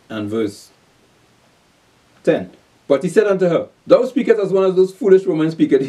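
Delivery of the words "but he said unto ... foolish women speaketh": raised, declaimed Bible reading; scripture reading. Acted. Preacher reads Job to his listeners, declaimed scripture reading. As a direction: read the verse out to the congregation.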